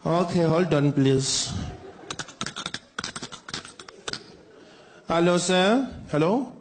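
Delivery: lightly voiced call-centre agent, unhurried; a hint of a bored phone agent reading the script. Agent Doris tells the caller the system is down, a light deadpan.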